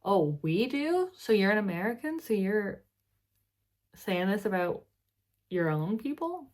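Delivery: mock surprise. Real, not acted.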